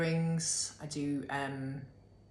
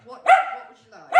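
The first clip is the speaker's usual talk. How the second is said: much higher, louder question; 14 dB louder than usual. Real, not acted. Asking the dog what he wants in baby talk. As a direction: squeal it at the pet.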